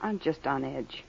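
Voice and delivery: hushed apology. Acted. Wife upset, apologizing.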